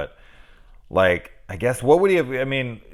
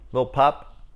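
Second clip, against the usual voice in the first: higher, baffled echo of the phrase; incredulous repeat; 5 semitones higher than usual. Shown as a demonstration. Baffled, repeating the silly line aloud. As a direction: ask it back in disbelief. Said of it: "read it out loud and you'd be like".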